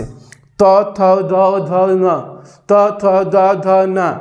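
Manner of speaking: playful sing-song letters; mock clown chant; clowning recitation. Shown as a demonstration. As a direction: ham it up so they remember. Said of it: "अब हम joker बन रहे हैं".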